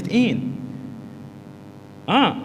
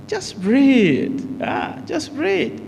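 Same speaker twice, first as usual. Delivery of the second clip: comforting someone in pain; 9 semitones higher, much slower than usual. Shown as a demonstration. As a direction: coax a hurting person through the pain, voice lifted high. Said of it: "If a person is in pain".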